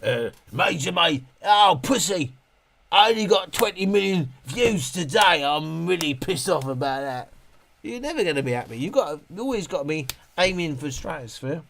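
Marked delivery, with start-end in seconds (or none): 0.0-7.3 hammed-up rich youtuber moaning; mock big youtuber. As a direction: imitate a spoiled big creator.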